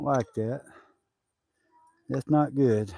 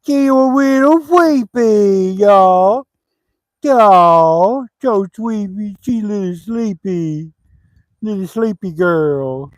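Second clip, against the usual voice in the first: put-on baby talk; much slower than usual. Teasing her as sleepy baby.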